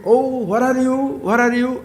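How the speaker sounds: teasing hide-and-seek call; playful calling. Retold or imitated. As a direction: call out like a game of peekaboo. Playing hide and seek with child.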